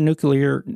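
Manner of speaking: NUCLEAR as a blend of nu-clear and nucular; hybrid pronunciation. Real, not acted. Slipping mid-example, hybrid pronunciation. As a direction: blur nuclear between both versions. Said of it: "I did a combination there".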